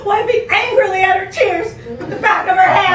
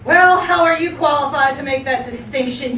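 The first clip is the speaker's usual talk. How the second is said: accusing; 4 semitones lower than usual. Acted. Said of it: "she demanded accusingly".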